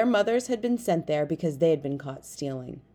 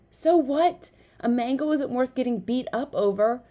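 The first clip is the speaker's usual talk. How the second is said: high, loud objection; exasperated protest; 7 semitones higher, 3 dB louder than usual. A narrator's reading. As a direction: argue back urgently mid-chase. Exasperated friend arguing during a chase.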